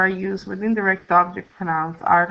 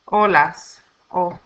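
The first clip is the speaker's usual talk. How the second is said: weight the first syllable of Olas, then repeat "o"; Olas, pause, then its stressed "o"; stressed syllable demo; 3 semitones lower, slower than usual. Shown as a demonstration. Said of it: "stress on the next to the last syllable".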